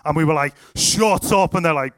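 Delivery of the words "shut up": loud, raised-pitch disbelief; astonished exclamation. Retold or imitated. Onlookers reacting to a healed shoulder, astonished exclamation. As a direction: blurt it out as retold amazement.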